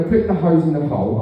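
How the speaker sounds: ordinary delivery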